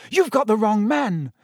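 high, restrained yell; urgent protest, pitched high. A narrator's reading. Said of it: "Harry yelled".

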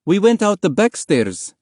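high-pitched, keyed-up mother; high, agitated telling; breaking urgent news. Acted. Relieved mother explains the escape.

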